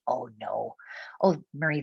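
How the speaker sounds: light Minnesotan accent, long vowels. Real, not acted. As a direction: slip into a Minnesotan "oh no". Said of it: "that was my Minnesotan accent right there".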